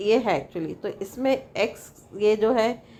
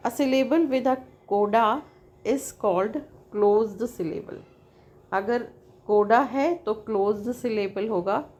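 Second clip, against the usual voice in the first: slow, careful reading of a definition; slow textbook reading; slower than usual. Acted. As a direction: read it out word by word for the class. Reads definition from the text.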